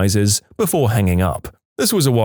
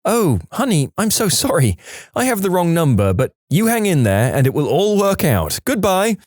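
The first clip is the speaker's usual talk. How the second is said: kind lady; 6 semitones higher than usual. Retold or imitated. Kind lady apologizing on phone.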